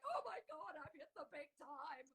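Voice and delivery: high, breathless mock thrill at fame; hammed-up glee at hitting the big time; mock starstruck. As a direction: ham up the naive excitement. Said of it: "I was like".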